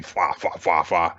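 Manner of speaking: mock laugh on "fa" syllables; spoken imitation of cackling; imitated Joker-style laugh. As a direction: sound out a half-hearted villain laugh. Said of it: "like, Joker style, laughing".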